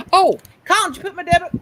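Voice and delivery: loud call across the house. Real, not acted. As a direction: call out to someone in another room. Calling out to Colin.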